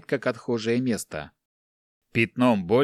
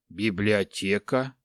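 dreamy smile; 3 semitones lower, slower than usual. Acted. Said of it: "улыбнулся Эстера и мечтательно".

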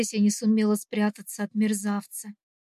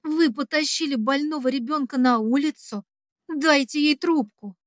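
mild acted shout; 3 semitones higher than usual. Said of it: "В очередной раз срываюсь на крик".

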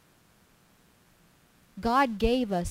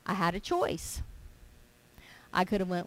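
ordinary delivery

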